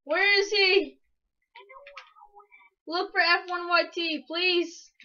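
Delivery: beg, close to crying; upset pleading. Real, not acted. Upset searching for lost horse.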